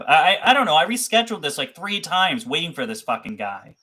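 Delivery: loud, high frustrated outburst; pissed off. Real, not acted. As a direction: vent your anger at being kept waiting. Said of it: "I am still pissed off".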